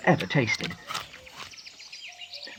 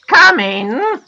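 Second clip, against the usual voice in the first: high, loud singsong call; 13 semitones higher, 8 dB louder than usual. A narrator's reading. Unseen gnome to the knocker, calling out. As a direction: call it through a closed door. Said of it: "called a voice".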